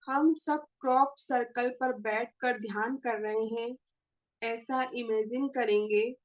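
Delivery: measured meditation guide with long pauses; guided meditation. Acted. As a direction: lead the group gently into meditation, pausing between phrases. (ध्यान कराने वाली ठहरी हुई आवाज़)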